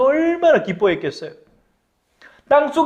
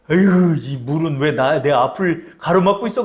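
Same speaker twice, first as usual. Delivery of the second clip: exasperated grumble; 3 semitones lower than usual. Acted. Disciple scolds the river.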